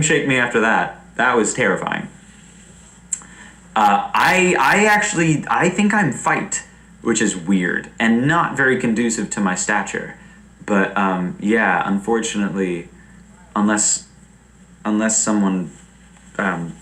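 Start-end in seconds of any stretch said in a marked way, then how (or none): none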